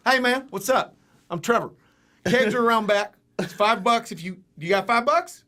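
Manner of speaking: hammed-up college bro at a keg party. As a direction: play the friendly frat guy, loud and upbeat. Frat dude at party voiced.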